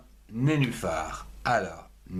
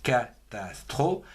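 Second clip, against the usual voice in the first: slow dictation. Shown as a demonstration. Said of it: "La troisième syllabe".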